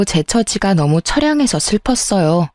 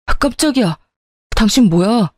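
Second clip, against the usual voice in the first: startled cry; 2 semitones higher than usual. Acted. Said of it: "비명을 질렀어요".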